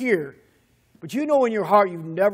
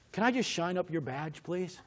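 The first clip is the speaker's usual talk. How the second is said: softly voiced, tentative polite ask; meek request; 9 dB quieter than usual. Driver timidly asking the officer to let them help, meek. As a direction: ask small and quiet, as a favour.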